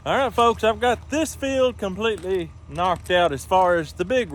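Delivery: projecting over the field; loud outdoor voice. Real, not acted. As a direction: speak up over machinery. Addressing viewers loudly outdoors.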